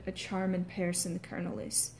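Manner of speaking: softly trailing Irish demo line; Irish accent with "is" ending on a soft S. Shown as a demonstration. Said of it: "make that sound a soft, softer S".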